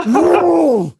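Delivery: high, loud whoop; mock war whoop. Pretend chainsaw attack on the door, high, loud mock whoop. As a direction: let out a crazed whoop. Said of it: "I'm gonna, like".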